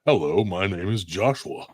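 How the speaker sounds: stiff, measured robot introduction. Pretend. Host mocking the accentless guest, robotic delivery. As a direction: introduce yourself like a plain-spoken robot. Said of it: "you just sound like a robot".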